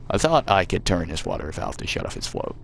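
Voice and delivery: put-on reading the game text in a light American accent. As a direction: narrate it like an American storyteller, gently put on. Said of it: "I'm really regretting doing the American voice now".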